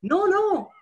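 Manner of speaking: No, no shouted high and loud; NO in bold. Pretend. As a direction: punch the No like bold type. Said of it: "I would imagine the sign telling me".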